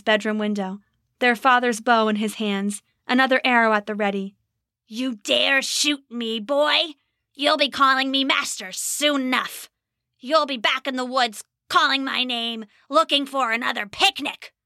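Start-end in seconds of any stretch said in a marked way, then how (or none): 4.9-14.5 put-on a wounded goblin threatening the archer boy; menacing goblin. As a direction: taunt the boy with promised servitude.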